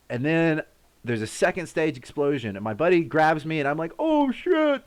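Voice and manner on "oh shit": very high, strained cry of alarm; retold terrified curse; panicked curse. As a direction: yelp it as you duck. Second blast coming.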